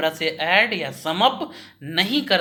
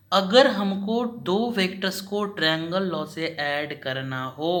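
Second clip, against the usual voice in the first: slow, careful explaining. Shown as a demonstration. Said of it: "मैं धीरे धीरे भी बोल रहा हूँ".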